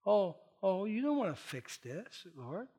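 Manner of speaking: hushed prayer of realization. Retold or imitated. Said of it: "I said".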